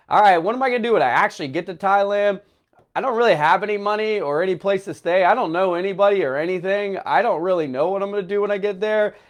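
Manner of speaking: fast run of worries; mild panic. Retold or imitated. Traveler fretting about arriving without money, mildly panicked. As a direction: rattle it off, slightly panicky. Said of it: "I was panicking a little bit".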